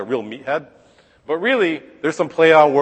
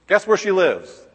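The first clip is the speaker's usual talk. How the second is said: exasperated disbelief; 6 semitones higher than usual. Real, not acted. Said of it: "exasperated teacher".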